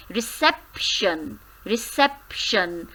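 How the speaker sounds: reception with sep stressed; reception, hit sep. Shown as a demonstration. Teacher answering the question, reception with sep stressed. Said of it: "So, sep is stressed here".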